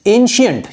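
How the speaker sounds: "एंशिएंट" said as EN-shi-ent; pronunciation demo. Shown as a demonstration. Teacher answers how to pronounce it, "एंशिएंट" as EN-shi-ent. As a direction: model "एंशिएंट" with a clear sh. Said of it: "इसका उच्चारण कैसे करेंगे हम".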